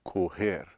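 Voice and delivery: "Correr" with a closed first o. Shown as a demonstration. Teacher repeating the verb for learners, closed o in "Correr". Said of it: "only option is to say o".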